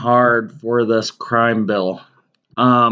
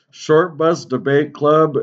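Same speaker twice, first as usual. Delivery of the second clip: slow, higher pompous announcement; mock formal proclamation; 4 semitones higher than usual. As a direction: declare the name like a herald. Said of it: "that goofy fucking intro".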